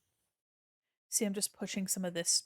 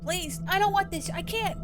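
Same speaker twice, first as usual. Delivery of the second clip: high, pleading fake whimper; begging much higher, a playful fake plea; mock begging; 8 semitones higher, 3 dB louder than usual. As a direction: beg the bot in hammed-up dread. Begging the scan bot.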